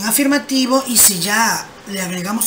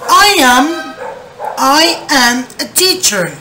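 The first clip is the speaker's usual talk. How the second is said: louder, slow model sentence for repeating; 3 semitones higher, 4 dB louder, slower than usual. Shown as a demonstration. Teacher reading the example aloud for the class. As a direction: project it to the class slowly. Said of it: "Me dicen acá".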